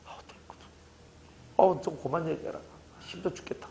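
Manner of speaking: breathy, fed-up hush; dismissive brush-off. Retold or imitated. Parent brushing off a child's talk, tired. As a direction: wave them off, tired and annoyed. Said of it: "이렇게 얘기한다면".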